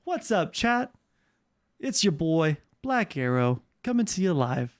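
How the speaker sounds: imitating a friend's streamer intro; lightly voiced smooth radio-style greeting; Black Arrow. Shown as a demonstration. Streamer demos friend's intro to chat, light impersonation. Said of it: "This is my Black, this is my Black Arrow person".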